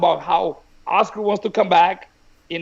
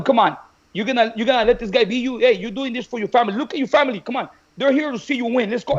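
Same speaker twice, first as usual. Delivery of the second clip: urgent, higher-pitched rallying; retold pep talk; 4 semitones higher than usual. Coach rallying fighter before his family, retold pep talk. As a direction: goad a fighter on, half-acted.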